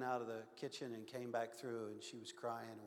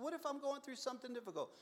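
high, earnest student asking; high pleading question; 10 semitones higher than usual. Retold or imitated. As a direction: raise the pitch like a worried young student. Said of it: "I said".

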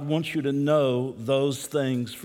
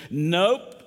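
put-on little boy's southern "nope", pitched up; southern drawl; 4 semitones higher, 4 dB louder than usual. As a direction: answer in a light southern drawl, voice rising. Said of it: "in a little southern drawl".

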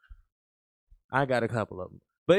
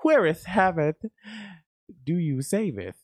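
Shakespearean parody; 2 semitones higher than usual. Pretend. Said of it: "like a little William Shakespeare style".

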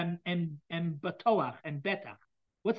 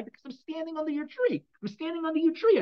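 much higher and louder, begging for protection; urgent plea; 9 semitones higher, 6 dB louder than usual. Acted. King David begging God to protect him, a loud high plea. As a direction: call out as if clinging to God. David claiming the tree's shade.

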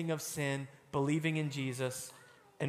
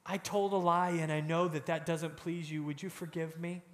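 humble prayer. Retold or imitated. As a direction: ask gently, almost under the breath. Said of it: "we say".

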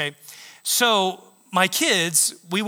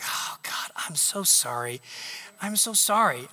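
softer, slow remorseful whisper; whispered apology; 4 dB quieter, slower than usual. Retold or imitated. Man whispers an apology to God, remorseful. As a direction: hush it out like a guilty confession.

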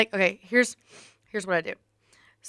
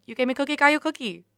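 quoting a catchphrase; 7 semitones higher, faster than usual. Retold or imitated. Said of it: "It's my favorite quote".

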